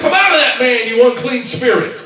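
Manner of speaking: firm, commanding rebuke; with authority. Shown as a demonstration. Preacher showing Jesus's rebuke, firm and commanding. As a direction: cast it out with full authority. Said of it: "there was some authority behind it".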